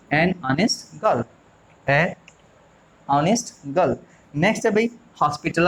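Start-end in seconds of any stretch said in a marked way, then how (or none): 0.1-3.9 slow model reading. Shown as a demonstration. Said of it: "तो क्या कहोगे?".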